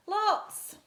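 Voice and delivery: high, loud breezy mum voice; high loud careless answer; spider mum. Acted. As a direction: toss it off like a busy mother spider. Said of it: "said Mum".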